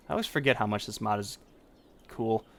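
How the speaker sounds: words tumbling out garbled and rushed; struggling to talk. Real, not acted. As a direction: trip over "I always forget how much this mod is cool", fast and jumbled. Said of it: "talking is hard right now".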